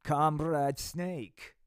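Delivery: slow, heavy menacing dictator; mock slow villain threat; Putin voice. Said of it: "Putin said".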